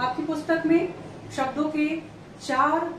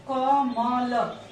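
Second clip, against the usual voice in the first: कमल very slow, split sound by sound as क, म, ल; sounded out slowly; 3 dB louder, much slower than usual. Shown as a demonstration. Teacher showing a sample word to students, कमल sounded out letter by letter. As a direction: draw out each letter of कमल separately. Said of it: "यदि इसका हम उच्चारण करते हैं".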